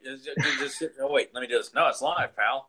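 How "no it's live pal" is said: N=Sid Vicious/public; Sid Vicious promo. Retold or imitated. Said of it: "we're cutting a bunch of Sid Vicious promos".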